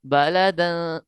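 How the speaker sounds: slow clear recitation, no nasal hum; recitation without ghunna. Shown as a demonstration. Teacher showing students the clear reading, slow recitation. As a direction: read it slowly and cleanly. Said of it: "यहाँ गुन्ना नहीं करेंगे".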